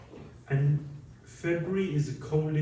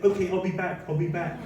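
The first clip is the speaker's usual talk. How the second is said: laughing; 3 semitones higher than usual. Retold or imitated. Woman promising, teller laughing.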